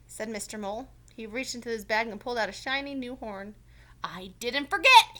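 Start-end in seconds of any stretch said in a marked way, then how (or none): 4.0-5.2 loud, higher cheerful call; cheered. Acted. Mister Mole showing the new horn, loud cheer. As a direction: cheer it out slowly. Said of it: "he cheered".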